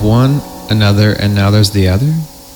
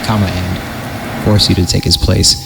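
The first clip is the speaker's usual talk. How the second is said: creepy story narration. Acted. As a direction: read it like a campfire horror tale.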